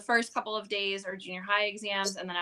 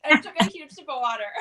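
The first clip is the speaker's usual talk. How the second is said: ice in mouth; 6 semitones higher, 7 dB louder, faster than usual. Real, not acted. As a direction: mouth full of ice and water. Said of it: "I have an ice cube in my mouth".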